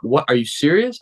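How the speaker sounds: mock outrage at a silly order; half-annoyed what, are you serious; incredulous, almost mad. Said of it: "I was almost mad".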